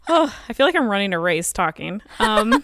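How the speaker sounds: breathless and laughing a little; short of air mid-sentence; out of breath. Real, not acted. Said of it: "I'm out of breath because I'm pregnant".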